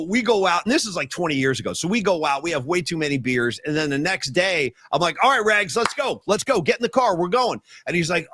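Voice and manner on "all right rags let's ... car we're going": higher-pitched, impatient urging; urging a friend. Retold or imitated. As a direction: hustle a friend into the car, acted out. Rousing his hungover friend to go.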